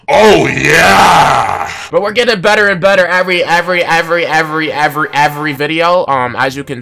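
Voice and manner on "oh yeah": loud, drawn-out victory holler; triumphant bellow. Real, not acted. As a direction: let it rip and hold the note. Celebration builds to a bellow.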